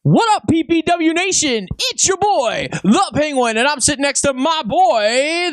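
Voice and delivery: hype intro. Acted. Cohost opening the show, hyped-up and high.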